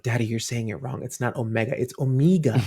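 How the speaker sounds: lightly voiced little girl correcting dad; a hint of a small child scolding daddy; mock daughter correcting. Little daughter correcting her dad's pronunciation, lightly voiced. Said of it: "she's always going around like".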